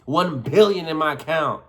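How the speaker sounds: punchy, playful boast; hyped-up swagger; excited bragging. Acted. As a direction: brag with exaggerated conviction. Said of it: "you're saying it with such emotion".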